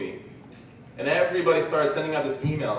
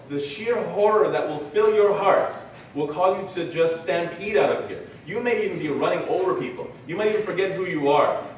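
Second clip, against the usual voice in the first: rising intensity; 4 semitones higher, 3 dB louder than usual. Real, not acted. Preacher builds dread of stampede.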